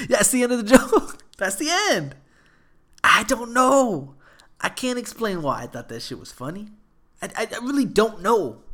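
laughing helplessly at his own joke. Real, not acted. Cracking up after own joke.

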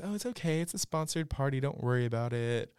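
high, sugary mock voice of a snooty guest; mocking Brynn. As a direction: play her as fake-sweet and dismissive. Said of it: "Brynn starts making comments".

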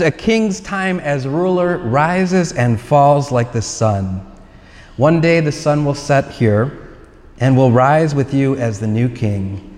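lightly imitated film narrator, measured; a hint of a solemn king's speech; James Earl Jones. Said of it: "the voice of James Earl Jones".

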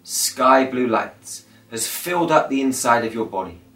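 calm, measured meditation guide with long pauses; guided meditation. Acted. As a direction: lead listeners gently through breathing, phrase by phrase.

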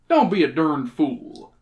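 put-on mildly snappish old-timer. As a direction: cut the listener off with mild irritation. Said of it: "snapped Sam".

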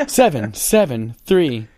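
slow robotic number readout. Pretend. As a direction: read digits like a phone robot. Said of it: "give your phone number instead in a robotic voice".

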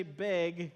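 imitated Minnesota "big" for bag; Minnesota pronunciation. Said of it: "You guys say big".

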